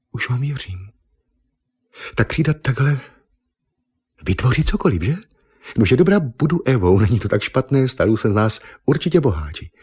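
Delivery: excited exclamation. Acted. Eva seeing the conjured delicacies, excitedly won over. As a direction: gush with sudden delight.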